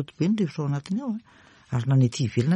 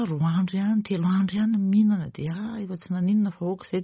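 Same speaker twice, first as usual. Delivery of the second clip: casual patient; 5 semitones higher than usual. Acted. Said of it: "Fa itsika manko ny a".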